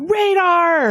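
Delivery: playful imitation of yelling out; mock yell. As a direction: call it out like a punchline, only half yelled. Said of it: "and you yell out".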